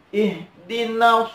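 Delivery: IHDINAS with a modestly held "na"; slightly lengthened vowel. Shown as a demonstration. Teacher repeats the right length, slightly held na. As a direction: chant "ihdinas", drawing na out a little. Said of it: "agak dipanjangkan sedikit".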